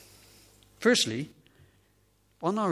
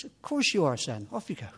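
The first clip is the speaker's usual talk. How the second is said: lightly voiced reassuring parent, pitch jumping up; daddy bear; 2 semitones higher than usual. Polar bear daddy answering his son, lightly acted reassurance. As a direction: brush the question off kindly. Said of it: "his daddy says".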